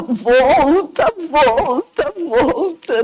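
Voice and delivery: urgent mild call, rising. Retold or imitated. Doctor calling the patient back, mild urgent call. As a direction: call her back to life.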